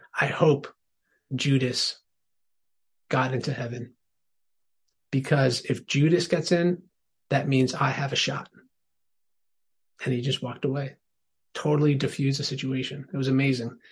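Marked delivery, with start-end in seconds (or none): 0.1-8.4 mock unruffled, calm, composed, even tone. Retelling how a professor answered a tough question from the class: retelling a calm remark. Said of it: "the professor just calmly said".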